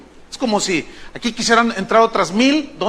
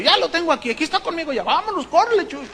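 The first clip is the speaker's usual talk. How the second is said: hurried organizer; 8 semitones higher, 4 dB quieter, faster than usual. Retold or imitated. Organizer radios that he has the preacher, high and urgent. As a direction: imitate a man urgently rushing someone along, pitched up.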